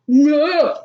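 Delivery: sudden high startled shriek; screaming at a spider. Real, not acted. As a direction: yelp of real fright.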